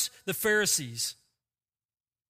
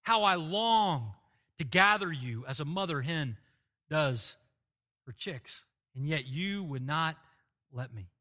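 restrained weeping lament; 3 semitones lower than usual. Acted. Preacher voicing Jesus weeping over Jerusalem, restrained sorrowful lament. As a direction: grieve aloud with long pauses, voice falling away. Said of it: "He weeps and he says".

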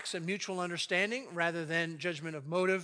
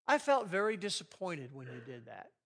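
calm I statement. Shown as a demonstration. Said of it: "it says something like this".

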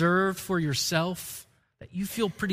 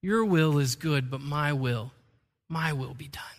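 self-willed clay; 5 semitones lower, slower than usual. Pretend. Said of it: "the clay turns to the potter and says".

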